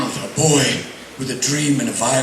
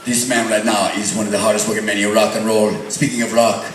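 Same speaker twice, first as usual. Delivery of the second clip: hyped arena announcer, stretched final shout; rock announcer intro. Acted. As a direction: build up and roar the name.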